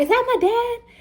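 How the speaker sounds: put-on high, wondering small-child voice; imitating a little girl spotting her father; little daughter. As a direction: ask it like a toddler meeting her dad. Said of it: "Phoenix was like".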